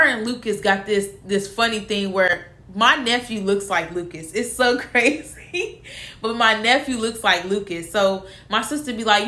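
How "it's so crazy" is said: laughing through the words, drawn out; amused. Real, not acted. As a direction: let a chuckle break in, slowly. Amused by nephew's likeness to Lucas.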